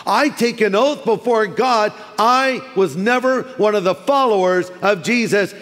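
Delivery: emphatic oath. Acted. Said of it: "taking the Lord's name in vain".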